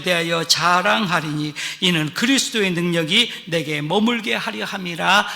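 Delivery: solemn, steady recitation of Paul's words; scripture reading. Acted. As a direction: lay out the verse with preacher's weight. Quotes Paul's epistle at length.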